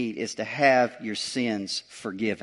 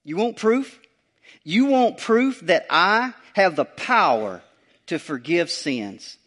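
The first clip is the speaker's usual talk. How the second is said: Jesus voiced; 3 semitones higher than usual. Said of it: "He's about to say to them".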